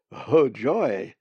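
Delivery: loud cry of joy; delighted. Acted. Hungry bird spots a peanut butter sandwich, delighted. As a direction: exclaim it with glee.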